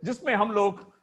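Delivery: loud, high hosting voice, laughing through; talk show host. Acted. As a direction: play a cheeky chat show host.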